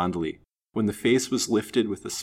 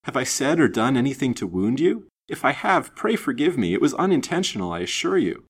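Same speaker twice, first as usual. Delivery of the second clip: high, urgent, anxious pleading; distressed apology, pitched high; alarmed; 6 semitones higher, 3 dB louder than usual. A narrator's reading. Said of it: "said he in alarm".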